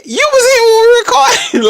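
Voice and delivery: loud, high-pitched protest; acting out a sister's exasperated insistence at full volume; retold insistence. Sister convincing speaker it's their voice, loud insistence.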